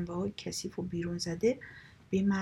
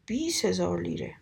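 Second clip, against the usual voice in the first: a slightly raised call of the bid; mild shout; 3 dB louder than usual. Acted. The lady outbidding her rival at the auction, a mild shout. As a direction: throw out the bid like a winning move. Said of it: "فریاد کشید".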